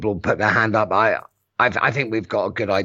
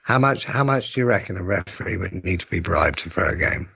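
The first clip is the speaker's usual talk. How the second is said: croaky whisper; 4 semitones lower than usual. Real, not acted. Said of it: "Why are you whispering in a weird, croaky".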